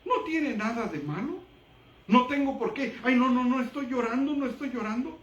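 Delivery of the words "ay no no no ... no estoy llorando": mock denial. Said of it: "No, sí estoy llorando".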